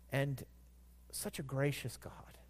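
soft whisper of awe; whispered aside. Real, not acted. Preacher marvelling at God to the congregation, whispered. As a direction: breathe it out to yourself.

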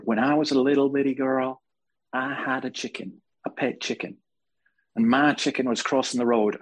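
lightly imitated American accent; strong accent. Televangelist tells a crowd about her pet chicken, lightly imitated American accent. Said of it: "She had a very s-, strong accent".

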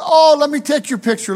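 a hint of a pushy street seller; Egyptian vendor woman. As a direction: imitate an eager-to-sell Egyptian woman in simple English. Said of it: "She goes".

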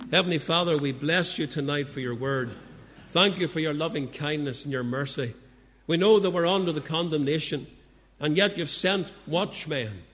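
steady, reverent prayer voice; closing prayer. Acted. Preacher leading the congregation in prayer, reverent. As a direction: speak to God on behalf of the congregation.

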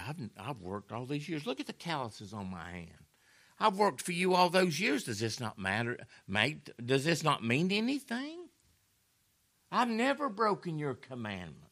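put-on resentful older son, rising to a high complaint; aggrieved son. Older son complaining to his father, building to high. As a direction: plead your case, hurt and bitter.

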